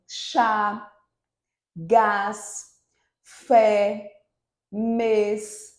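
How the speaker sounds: "chá", "gás", "fé": each word loud, drawn out and set apart; strong stressed monosyllables. Shown as a demonstration. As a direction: dictate each one-syllable word like "pó" with a long, strong vowel. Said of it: "esses são monossílabos tônicos". ("chá", "gás", "pó": cada palavra forte, alongada e separada)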